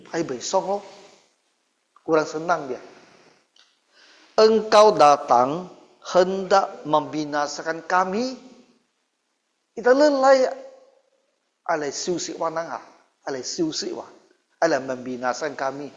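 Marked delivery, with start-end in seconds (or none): 4.3-10.5 possessed man screaming. Retold or imitated. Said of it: "dia teriak apa". (teriakan orang kerasukan yang keras dan panjang)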